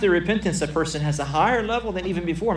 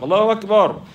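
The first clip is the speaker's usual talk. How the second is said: shouted cry, higher and louder; a hammed-up war cry; mock battle cry; 5 semitones higher, 5 dB louder than usual. Preacher mocking a bomber's shout to his listeners, loud mock cry.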